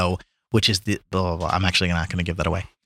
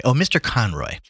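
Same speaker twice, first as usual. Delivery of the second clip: lightly voiced maid's greeting, a little higher; a hint of a maid greeting a guest; Lily; 4 semitones higher than usual. Maid to arriving guest, lightly acted greeting. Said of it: "said Lily to Gabriel".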